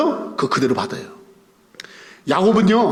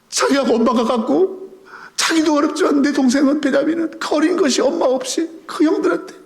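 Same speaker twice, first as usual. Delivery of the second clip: crying while preaching; 6 semitones higher than usual. Real, not acted. Preacher tearfully telling of Joseph missing Benjamin, voice cracking. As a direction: voice breaking into tears, higher.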